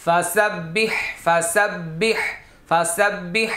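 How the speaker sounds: ফাসাব্বিহ with a doubled b and rising end; careful teacher's model; model pronunciation. Shown as a demonstration. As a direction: say ফাসাব্বিহ clearly for pupils. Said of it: "আমি আবার এই শব্দগুলি বলছি।".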